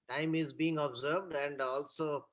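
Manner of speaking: faint, breaking-up audio on a bad call; call dropping out. Real, not acted. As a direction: voice cutting out over the line. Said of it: "Or Sandeep, you are not audible".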